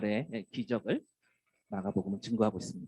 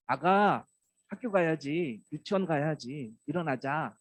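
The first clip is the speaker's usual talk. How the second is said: a light, sweet mother's morning call; parent waking a child; 3 semitones higher, slower than usual. Retold or imitated. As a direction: coax the little one out of bed. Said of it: "하면서 깨우지 않나요". (아이를 깨우는 다정한 엄마 목소리)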